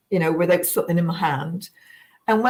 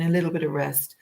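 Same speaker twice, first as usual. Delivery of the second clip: whisper; 2 semitones lower than usual. Real, not acted. Describing her rest and meditation.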